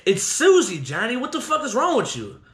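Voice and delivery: half-voiced retold yell. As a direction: imitate an exasperated call to someone upstairs. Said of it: "the person yells out and goes".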